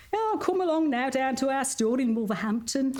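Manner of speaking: hammed-up Black Country accent. Shown as a demonstration. Voice artist mimicking her Wolverhampton read, in a Black Country accent. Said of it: "So you'll get me going".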